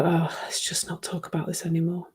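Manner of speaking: soft whisper, letting it drop; whispered aside. Retold or imitated. Whispering to her other half to drop the rant. Imagined remark to partner while ranting.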